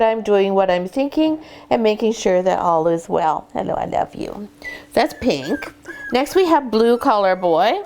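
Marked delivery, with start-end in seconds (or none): 3.5-4.5 soft, tender hello; tender greeting. Real, not acted. Breeder greeting the puppy she's holding, tender. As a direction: greet a puppy softly and lovingly.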